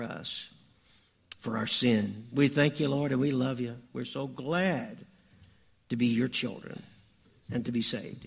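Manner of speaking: measured, subdued congregational prayer; leading prayer. Real, not acted. Pastor thanking the Lord before Christmas, prayerful. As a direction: pray gently and earnestly, easing down at the end.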